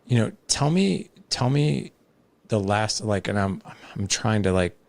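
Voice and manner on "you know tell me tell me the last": curious. Shown as a demonstration. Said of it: "in that voice tone of curiosity".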